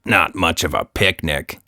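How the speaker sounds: talking through cookies; mouth full. Acted. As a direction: say it chewing cookies. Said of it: "with a mouthful of cookies".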